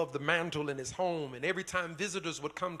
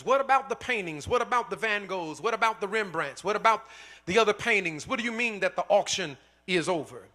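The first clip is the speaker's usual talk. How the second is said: higher and louder, outraged questions; indignant crowd; 4 semitones higher, 6 dB louder than usual. Acted. Bidders angrily question the auctioneer, outraged and louder. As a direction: demand answers, building in outrage. Angry crowd demanding answers.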